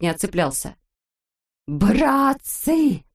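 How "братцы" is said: higher, urgent call for help; alarmed cry. A narrator's reading. Doctor Pilyulkin calls the shorties as Toropyshka hangs, higher urgent cry. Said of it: "закричал доктор Пилюлькин".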